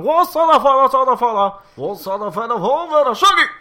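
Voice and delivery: high, loud cartoonish singing voice; hammed-up impression of a singer. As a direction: belt it out like a singer. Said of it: "how normal the singer's voice is".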